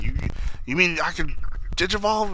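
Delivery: rising, stammering hope; hopeful Impmon. Retold or imitated. Impmon asking the Deva if he can digivolve, hopeful. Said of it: "he's like".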